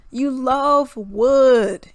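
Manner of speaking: LOVE and WOOD stretched long and loud; emphatic drawn-out mockery. Real, not acted. Telling rappers we get it, stretched "love wood". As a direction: drag out "love" and "wood" very slowly.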